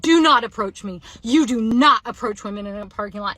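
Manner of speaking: loud, firm re-enacted warning; emphatic mock yell, hard on "not"; retold yelling. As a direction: act out yelling someone off. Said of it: "like, yelling it".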